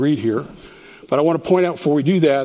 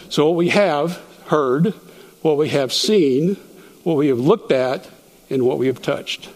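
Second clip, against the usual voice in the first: "heard", "seen", "looked", "touched" each hit with a rise; each verb stressed. Shown as a demonstration. Teacher drawing the class to each verb, stressed. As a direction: land on every verb in turn. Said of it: "having you focus on each one".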